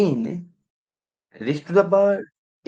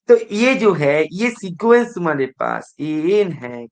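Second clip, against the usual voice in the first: emphatic restart; 5 dB louder than usual. Real, not acted. Teacher resumes with force.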